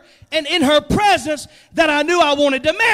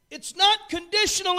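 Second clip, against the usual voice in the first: "not" leaned on hard; stress on not; 6 semitones higher than usual. Shown as a demonstration. Pastor correcting the church, stress on "not". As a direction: hit "not" to set up the contrast. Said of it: "it's unconditional".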